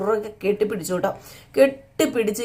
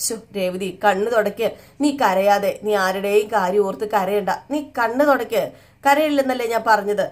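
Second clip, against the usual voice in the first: tender husband consoling. Acted. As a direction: soothe her like a tender husband. Sachi soothing crying wife.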